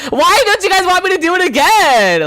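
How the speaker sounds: high, loud mock-offended whine; indignant squeal. Real, not acted. Chat refused the impression.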